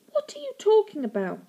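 high, incredulous whisper; whispered disbelief. A narrator's reading. Girl in disbelief.

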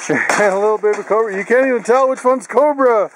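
high cooing voice for the dog. Real, not acted. Cooing at the puppy.

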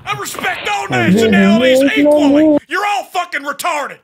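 blustering sergeant holler; indignant drill-sergeant shouting; yelling. Pretend. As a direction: yell it as if across a great distance. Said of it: "sounds like he's yelling from".

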